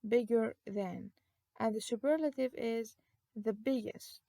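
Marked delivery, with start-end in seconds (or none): 0.1-1.1 slow, clear teacher model of bigger than. Shown as a demonstration. Teacher slowly models bigger than for students. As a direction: draw out bigger than for the class. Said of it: "notice that the G is doubled".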